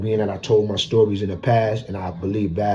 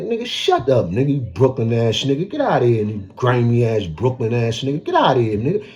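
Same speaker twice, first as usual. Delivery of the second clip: playful comeback; 3 semitones higher than usual. Retold or imitated. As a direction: clap back at your friend with a grin. Retorting to Shy Stone's teasing.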